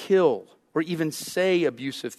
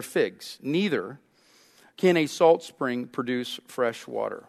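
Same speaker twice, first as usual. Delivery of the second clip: scripture reading. Acted. Pastor reads James to the congregation, solemn reading.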